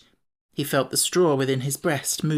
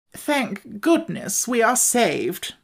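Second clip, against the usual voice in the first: relieved exclaim; 7 semitones higher, much slower than usual. A narrator's reading. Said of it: "heaved a deep sigh of relief as he exclaimed".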